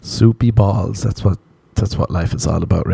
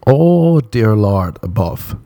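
shocked woman; 2 semitones higher, slower than usual. Retold or imitated. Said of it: "And you'd be like".

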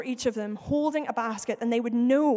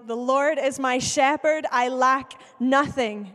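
louder, slow and emphatic, leaning on lack; congregational declaration; 4 dB louder, slower than usual. Shown as a demonstration. Pastor leads the congregation in saying it, loud and slow. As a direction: proclaim it out loud together. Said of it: "Will you say that with me".

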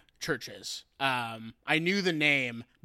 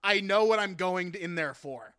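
laughing through the quote; 4 semitones higher, 4 dB louder than usual. Retold or imitated. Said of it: "He's like".

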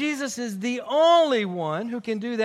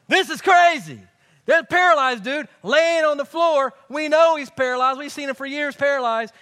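amazed crowd; 3 semitones higher, 5 dB louder than usual. Retold or imitated. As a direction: burst out in disbelief at the healing.

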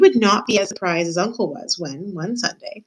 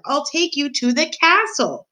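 high, slow, over-clear explanation; drawn-out calling voice; slow raised voice; 9 semitones higher, slower than usual. A narrator's reading. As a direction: spell it out slowly and high for someone hard of hearing. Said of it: "shouted the soldier".

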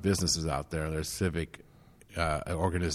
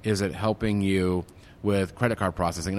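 eager helpful offer; 3 dB louder than usual. Retold or imitated. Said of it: "I'm like".

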